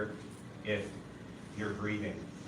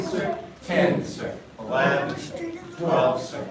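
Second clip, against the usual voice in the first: shouted drill count; 4 dB louder, slower than usual. Real, not acted.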